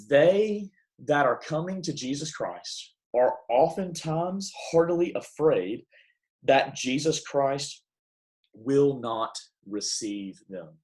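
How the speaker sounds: put-on slow, measured reading of an old text; deliberate reading, descending at the end; formal quotation reading. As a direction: read it out slowly, phrase by phrase. Reads a book quotation.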